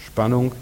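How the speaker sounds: SPANNUNG with a rising, suspended tune; tension. Shown as a demonstration. Preacher repeats tension for the congregation, SPANNUNG rising and held open. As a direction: lift the end of SPANNUNG, left hanging. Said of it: "Merkt ihr das?".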